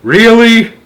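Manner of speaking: high, loud offended squawk; indignant really. Acted. Centipede retorting to the earthworm's insult. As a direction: snap back in disbelief.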